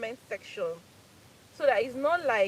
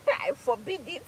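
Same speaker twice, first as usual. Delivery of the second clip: laughing mock decree; 7 semitones higher, 4 dB louder, slower than usual. Playful mock decree to husband.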